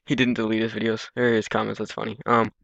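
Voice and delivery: talking while chewing gum; words round a wad of gum. Real, not acted. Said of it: "sorry, it's probably annoying that I'm chewing gum right now".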